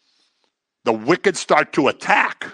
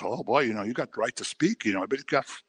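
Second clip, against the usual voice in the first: mock tolerance; 9 dB quieter, faster than usual. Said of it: "Everybody goes".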